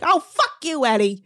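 playfully cuss him out; mock mad. Host wanting a reason to rant, mock-angry outburst. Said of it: "Getting mad at Eddie".

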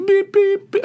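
high, loud electronic pips; imitated machine beeps. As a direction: mimic the keypad with high squeaky beeps. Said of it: "She's like".

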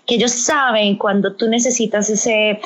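ordinary talk, nothing marked

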